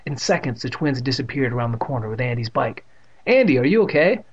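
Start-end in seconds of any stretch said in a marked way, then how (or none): 3.3-4.3 high, loud worried question; raised voice, pitched up in alarm; crying out. A narrator's reading. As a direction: cry out in concern for a hurt friend. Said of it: "Evan cried".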